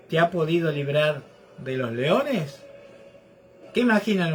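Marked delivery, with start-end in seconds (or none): 0.1-2.6 low, subdued question as the sorrowful king; king's sad voice. Acted. The king asks Daniel whether God saved him, mildly sad. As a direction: lower your pitch, a touch of sadness in the asking. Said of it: "con voz triste".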